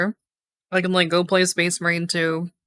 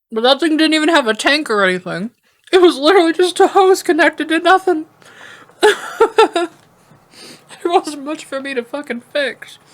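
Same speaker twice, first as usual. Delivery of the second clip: exasperated rant; 9 semitones higher, 4 dB louder than usual. Real, not acted. Ranting, laughing at broken airbrush.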